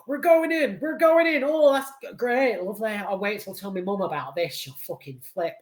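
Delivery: high, excited mock Wigan lad; Wigan accent. Patrick Wilson's character heading in, done in a chuffed Wigan accent. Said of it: "I think that was more Wigan".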